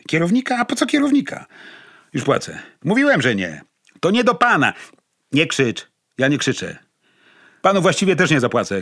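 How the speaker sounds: high, loud frantic snapping; flustered shouting. Acted. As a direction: juggle two angry conversations. Flustered man on two phones.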